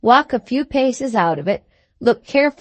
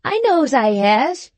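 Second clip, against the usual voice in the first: slow, heavy, emphatic lad's voice; a slow country boy pressing his point; emphatic fat boy; 4 semitones higher than usual. A narrator's reading. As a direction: lean on each word like a touched, dull boy. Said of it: "He seemed touched as he replied emphatically".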